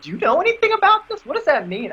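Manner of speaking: high, fast, frantic questioning; frantic asking. Retold or imitated. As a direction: beg everyone for an answer. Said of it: "I'm like".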